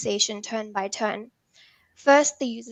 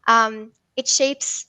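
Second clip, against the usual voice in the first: usual speaking voice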